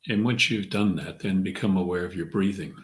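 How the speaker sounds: measured meditation guide, long pauses between phrases; guided meditation. Acted. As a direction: ease them inward, leaving room to breathe. Leads a centering meditation.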